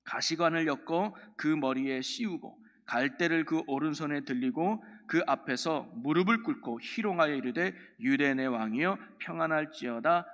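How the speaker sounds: measured, projected Bible reading; scripture reading. Acted. Preacher reads Matthew's crucifixion account to the congregation, scripture reading. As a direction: read the verse out firmly to a congregation.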